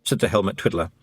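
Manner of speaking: high Scots little man, cheerfully frank; a wee Scottish thief owning up; Feegle voice. A narrator's reading. Feegle admits stealing to Tiffany, high and cheerful. Twiddler worry.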